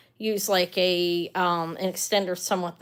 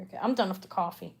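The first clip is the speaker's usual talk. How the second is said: too much caffeine; 3 semitones lower, 6 dB quieter, much faster than usual. Real, not acted. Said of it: "As you can tell, I got a lot of energy".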